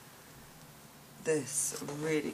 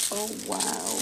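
usual speaking voice

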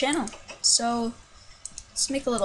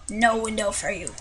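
put-on a light, barely there Russian accent; a hint of Russian accent, playful. Minecraft player denying a window, light Russian accent. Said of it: "I don't know where the Russian accent came from".

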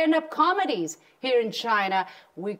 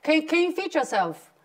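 asked again, higher and clearer for a guest who missed it; repeated more clearly; 5 semitones higher than usual. Real, not acted. Host repeating her question to the comedian, clearer. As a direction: say it again so they catch it. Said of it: "Can we?".

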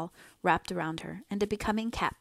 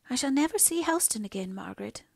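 tearful; 5 semitones higher than usual. A narrator's reading. Mother mourning her lost home, tearful. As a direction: grieve it, sinking away at the end. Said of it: "the tears welling up into her eyes".

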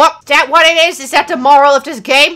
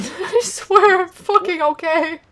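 high, slow insistence; strained insistence; 7 semitones higher than usual. Real, not acted. Gamer losing it insists they're okay, strained insistence. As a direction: strain upward, dragging it out.

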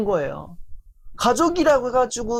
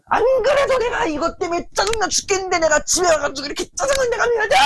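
high furious yelling, fast; angry shout; 10 semitones higher, faster than usual. Retold or imitated. Husband yelling at his wife at home, angry shout. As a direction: snap back in a fed-up rage.

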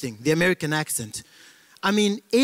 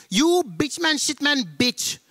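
cursing Indian; 3 semitones higher than usual. Acted. Indian man cursing someone out, mock outrage in Indian accent. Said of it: "favorite people in the world for cursing are Indians".

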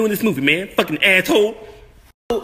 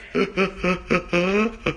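Eddie Murphy style wheezing cackle; low breathy cackle; signature cackle; 5 semitones lower, 8 dB quieter than usual. Acted. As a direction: break into that trademark hee-hee cackle. Laugh after rambling.

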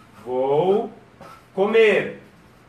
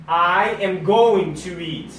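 slow teaching; much slower than usual. Shown as a demonstration.

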